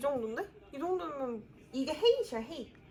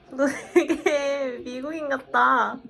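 amazed; 11 dB louder, slower than usual. Real, not acted. Amazed at friend's accent.

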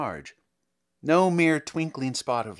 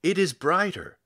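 crying out; 4 semitones higher than usual. A narrator's reading. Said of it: "cried the people clustering".

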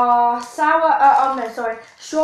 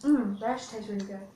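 chewing candy while talking; talking with taffy in mouth; mouth full, chewing; 2 semitones lower, 8 dB quieter than usual. Real, not acted. Seen 1: Unclear who speaks; both girls chew candy throughout the words.

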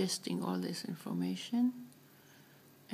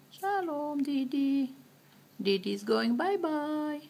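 put-on sing-song baby talk; 5 semitones higher, slower than usual.

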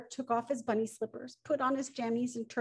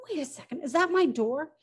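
puzzled surprise; 4 semitones higher, 3 dB louder than usual. Acted. Woodpecker spots his door on ground.

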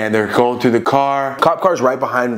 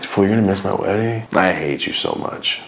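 sad; 4 semitones lower than usual. Retold or imitated. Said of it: "I'm, like, sad".

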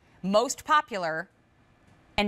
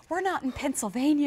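higher, sweet imitation of a soft voice; imitating sweet little soft voice; 7 semitones higher than usual. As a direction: parrot her sweet soft voice. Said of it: "What her sweet little soft voice said".

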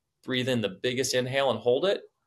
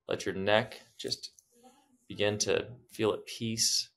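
guided meditation; slower than usual. Acted. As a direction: soothe them into stillness.

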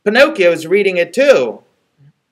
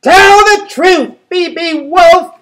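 higher, slow, scolding piggy; bossy little piggy; 13 semitones higher, 8 dB louder, slower than usual. Acted. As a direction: drag each word out like a stern little pig. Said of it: "the little piggy goes".

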